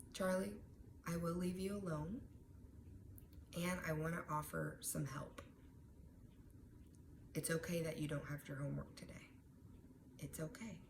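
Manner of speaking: softly reassuring, soft and steady; calm, even teacher voice. Pretend. Teacher calmly reassures an upset student, soft and even. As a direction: settle him with a calm, soft tone. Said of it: "nice, even tone in her breath".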